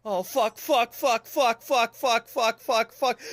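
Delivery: even, rhythmic repeated swearing; panicked cursing. Real, not acted. Gamer in sudden trouble, panicked cursing. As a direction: chant the curse over and over, evenly.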